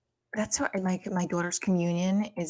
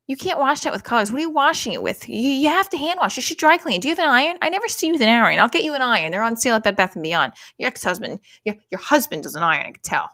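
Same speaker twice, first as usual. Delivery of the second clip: high, loud rapid-fire nagging mom; nagging mother; 5 semitones higher, 7 dB louder than usual. Retold or imitated. Mom fussing over the white sweater, loud and high nag. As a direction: lecture your daughter nonstop.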